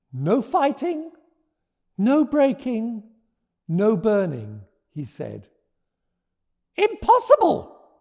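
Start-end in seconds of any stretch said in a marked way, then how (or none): 0.1-4.6 high, slow and deliberate; firm wishes. Acted. Norman states his wishes. 6.8-7.9 high, loud scornful cry; growled refusal. Acted. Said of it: "growled Geraldine Green".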